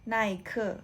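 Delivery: "ไนเคอ" with Chinese tones; Mandarin reading. Shown as a demonstration. Teacher giving the Chinese name for Nike, Mandarin tones. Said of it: "ไนเคอ Nike นะคะ".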